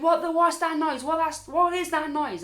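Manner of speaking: retold freaking out. Woken without glasses by noise, freaking out. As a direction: stumble over it in mock panic. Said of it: "I'm freaking out now".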